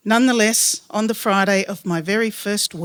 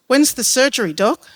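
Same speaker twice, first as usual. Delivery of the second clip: mild gasping plea, a bit louder; gasped; 4 semitones higher, 3 dB louder than usual. Acted. Labouring woman asking the doctor about surgery, mildly gasping. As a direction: push the question out between breaths. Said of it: "she gasped".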